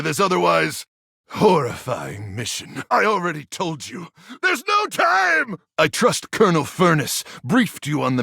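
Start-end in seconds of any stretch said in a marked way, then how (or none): 2.9-5.6 exasperated shout. Acted. Commander to ranger, stalling for time, exasperated shout. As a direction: snap that there's no time. Impatient commander cuts off questions.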